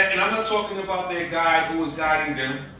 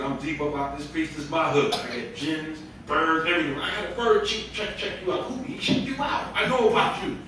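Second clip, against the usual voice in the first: mock overcompensating boast; 2 semitones lower, 4 dB quieter than usual. Preacher mimicking how the prophet did not talk, mildly boastful. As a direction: imitate someone puffing himself up a little. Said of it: "he wasn't overcompensating like that".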